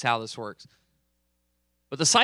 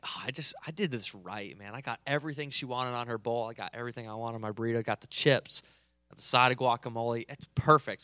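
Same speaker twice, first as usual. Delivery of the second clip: smug inner thought; 3 semitones lower, 6 dB quieter than usual. Retold or imitated. Proud of his lunch setup.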